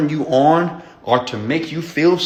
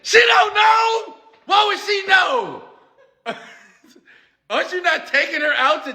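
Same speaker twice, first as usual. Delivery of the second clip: emphatic shout. Real, not acted. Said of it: "emphatic rant".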